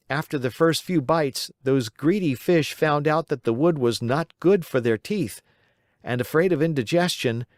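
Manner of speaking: put-on a cheerful wooden boy telling his tale; Pinocchio's voice. Pinocchio finishes his story.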